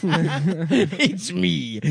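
a hint of a smooth secret agent introducing himself; James Bond. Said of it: "It's the easiest impression".

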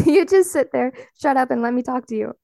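playful mock drama, a laugh breaking in; mock dramatic. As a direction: play the diva who just needs to vent. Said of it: "I just have to be dramatic".

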